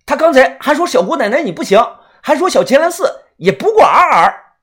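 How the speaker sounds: high, loud, fast stirring; shouted tattling. A narrator's reading. Sidekick eggs on his protector, loud high shout. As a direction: yell it to stoke her anger. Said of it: "我大声地喊".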